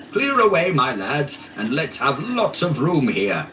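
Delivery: put-on rally the boys merrily; jovial Fezziwig. A narrator's reading. Fezziwig calling his apprentices, jovial shout. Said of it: "cried old Fezziwig".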